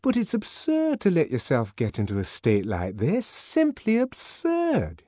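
voiced Fanny, energetically protesting; energetic protest. A narrator's reading. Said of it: "energetically protesting".

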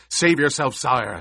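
loud urgent plea; shouting. Acted. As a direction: shout a desperate warning. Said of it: "officer shouted".

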